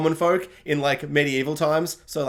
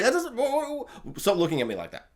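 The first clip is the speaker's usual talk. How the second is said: flustered laughing; 5 semitones higher, 4 dB quieter than usual. Pretend. Flustered at viewer.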